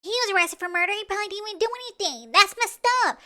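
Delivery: high, put-on naive voice; mocking imitation. Host mimicking mom defending the arrested guy, mocking high voice.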